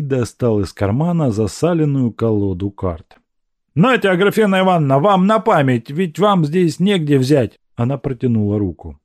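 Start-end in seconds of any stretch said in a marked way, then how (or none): 3.7-7.6 fast, high, eager offering; Evsey's gift. Acted. Evsey presenting the greasy deck to Agrafena, quick and high. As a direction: hand her the cards proudly. Evsey gives her cards.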